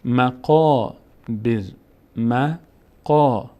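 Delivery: مقابر slowly, the qaa held long; long alef sound. Shown as a demonstration. Teacher models the word for learners, slow long alef. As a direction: stretch the second syllable of مقابر. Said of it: "صدای آ".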